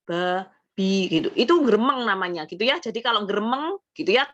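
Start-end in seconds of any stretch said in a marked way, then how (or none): 0.1-1.3 wrong mumbling way to read; mumbled ba bi. Shown as a demonstration. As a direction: swallow "ba", "bi" in a murmur. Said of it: "Jadi jangan gremeng".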